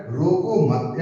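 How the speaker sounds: रोको मत as one unit, stopping after मत; pause after मत. Shown as a demonstration. Teacher placing the comma for students, break after मत. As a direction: join रोको to मत, then break. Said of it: "यहाँ पे लगा दिया".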